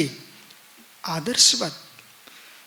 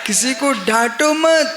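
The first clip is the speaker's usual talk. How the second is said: raised, higher preaching voice; emphatic admonition; 5 semitones higher, 4 dB louder than usual. Real, not acted. Preacher tells fathers not to scold, emphatic admonition. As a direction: press it home loud and high.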